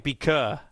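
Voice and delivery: "Beaker" ending in "kuh"; non-rhotic Beaker. Shown as a demonstration. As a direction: say "Beaker" without sounding the final R. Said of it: "Do you need to hear, like".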